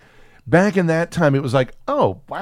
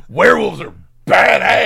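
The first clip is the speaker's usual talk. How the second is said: shouted high and loud in glee; excited shout; 8 semitones higher, 6 dB louder than usual. Retold or imitated. Podcaster quoting a show, loud excited shout. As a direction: yell it like a thrilled fan.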